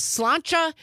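"sláinte" said as SLAWN-chuh; correct Irish pronunciation. Shown as a demonstration. Host relaying a listener's Irish toast, careful pronunciation of "sláinte" as SLAWN-chuh. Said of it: "saying the correct pronunciation".

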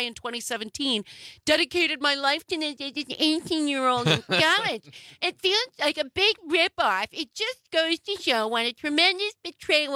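whiny, complaining quote. Retold or imitated. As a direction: whine it like a sore loser. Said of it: "I can't even keep up the whiny voice".

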